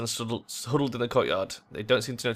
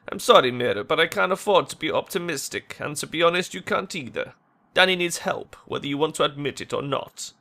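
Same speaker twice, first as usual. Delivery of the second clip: lightly voiced, insistent apology; regretful, frank friend; 4 semitones higher, 3 dB louder than usual. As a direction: break hard truth to a friend.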